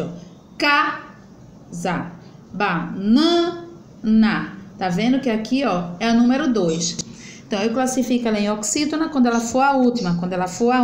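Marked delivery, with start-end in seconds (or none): 0.6-4.6 "Casa" and "banana" slowly split, weight on CA and middle NA; stressed penultimate syllable. Shown as a demonstration. Teacher showing the penultimate stress, "Casa, banana" drawn out. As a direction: stretch the next-to-last syllable of "Casa" and "banana". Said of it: "a mais forte".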